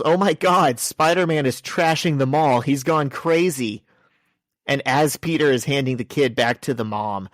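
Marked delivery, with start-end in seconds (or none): 0.0-3.8 higher-pitched panicked-bystander yell, lightly acted; mock yell. Bystander yelling as they run by, mock alarmed yell. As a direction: call it out in alarm, half-hearted. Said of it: "someone runs by and yells".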